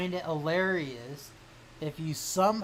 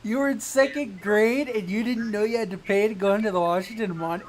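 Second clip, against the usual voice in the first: high, loud disbelief; incredulous; 5 semitones higher, 6 dB louder, faster than usual. Real, not acted. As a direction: react in total disbelief. Incredulous reaction to story.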